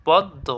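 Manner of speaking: পদ্ম as "pod-do"; silent m. Shown as a demonstration. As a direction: double the d in পদ্ম, no m. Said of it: "এই মটা কি এখানে উচ্চারণ হয়েছে?". (পদ্মকে "পদ্-দোঁ" উচ্চারণ)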